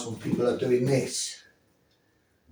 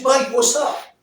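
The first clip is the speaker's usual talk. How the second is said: high, loud, breezy "Mate, what's up?"; casually confident distraction line; confident friendly greeting; 10 semitones higher, 5 dB louder, slower than usual. Shown as a demonstration. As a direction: throw up your hands and greet him like an old mate. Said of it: "all conveying the message".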